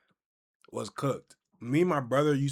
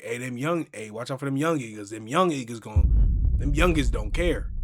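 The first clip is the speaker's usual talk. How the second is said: unk warning; 5 dB louder than usual. Retold or imitated. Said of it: "be like".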